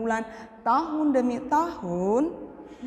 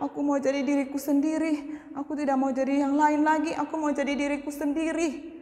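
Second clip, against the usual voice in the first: regretful; 2 semitones higher, faster than usual. Acted. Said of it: "dia menyesal dan dia bilang".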